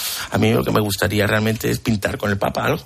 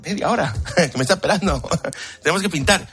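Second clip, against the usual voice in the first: hurried plea; 8 semitones higher than usual. Retold or imitated. Telling tailor he's rushed.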